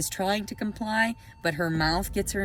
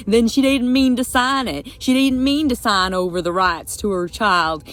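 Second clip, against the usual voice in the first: loud heated rant, voice raised and pressing; angry rant; 7 dB louder than usual. Real, not acted. Vlogger ranting at the court over her custody papers, angry and loud. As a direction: hammer every point home, furious and loud.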